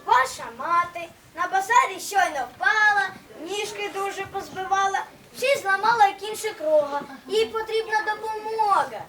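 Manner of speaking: wolf putting on a lightly disguised, sweeter voice; faked friendly voice. Wolf at the door tricks the kids with a sweet telegram voice. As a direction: sound harmless to get the door opened. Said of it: "навіть голос підробив".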